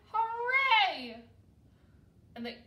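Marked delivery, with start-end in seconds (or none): 0.1-1.2 very loud, high hurrah; jubilant cheer. A narrator's reading. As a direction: cheer at full tilt with delight. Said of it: "they cried".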